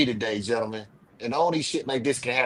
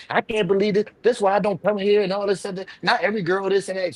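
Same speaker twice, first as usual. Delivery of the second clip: retold snapping; 5 semitones higher than usual. Woman complaining at the pool, imitated mild snapping. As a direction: imitate her worked-up griping. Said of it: "she starts snapping on me".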